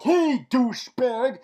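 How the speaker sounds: loud, high, slow accusing call; mock interrogation. Cisco interrogating the man who killed him, mock accusing. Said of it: "he's like interrogating him".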